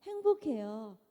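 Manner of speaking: a hint of an upbeat ad line; quoted TV slogan. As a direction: lightly quote the commercial slogan. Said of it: "티비 많이 보셨죠?".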